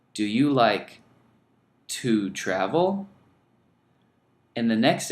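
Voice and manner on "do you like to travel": "Do you like to travel?" with "to" spelled out slowly; slow, clear to. Shown as a demonstration. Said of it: "Pay special attention".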